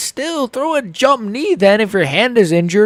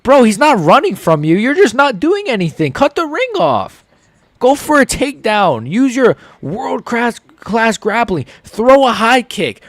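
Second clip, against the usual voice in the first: yelled advice; 4 semitones higher than usual. Retold or imitated. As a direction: bark orders at the fighter. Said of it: "he's putting his hands up like".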